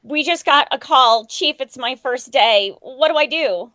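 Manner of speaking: loud, urgent acted panic; rookie's alarm. New firefighter begs chief for orders, loud alarm. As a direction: call out like a flustered new recruit.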